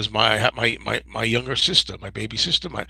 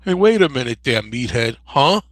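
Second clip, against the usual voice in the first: Woody Harrelson doing Archie; 6 dB louder than usual. Retold or imitated. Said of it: "Woody Harrelson was like".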